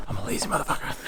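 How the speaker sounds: quick whispered self-deprecating aside. Real, not acted. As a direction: whisper it under your breath, joking. Self-mocking aside after elevator confession.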